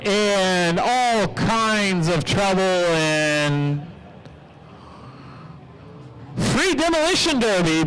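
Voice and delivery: projected announcer delivery with stretched key words; track announcer call. Real, not acted. Announcer starting the demolition derby in the rain, projected play-by-play. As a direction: send the field off with a drawn-out call.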